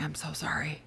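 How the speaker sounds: hushed, secretive whisper; whispered apology. Retold or imitated. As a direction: whisper it so only the child hears. Retells secret apology to son.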